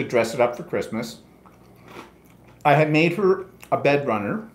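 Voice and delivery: talking through a mouthful of food; words round a bite of food; mouth full. Real, not acted. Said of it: "I shouldn't talk with my mouth full".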